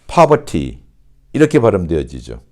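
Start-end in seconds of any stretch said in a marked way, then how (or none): 0.1-0.8 higher British "poverty" as "pah-vah-tee", crisp T; British model word "poverty", pitched up; British pronunciation. Shown as a demonstration. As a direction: say "poverty" with no R and a true T. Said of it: "영국식은 어떻게 발음되어질까요?".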